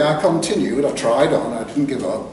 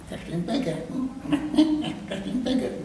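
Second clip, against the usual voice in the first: quiet mock Jasper, breaking into laughter; laughing quote; 11 semitones higher, 6 dB quieter, faster than usual. Jasper chuckling about his hole, quietly laughing. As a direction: giggle through it, softly.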